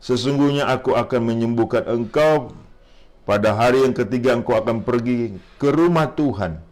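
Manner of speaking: measured, solemn reading aloud; scripture reading. Acted. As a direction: read it out as God's message to the king.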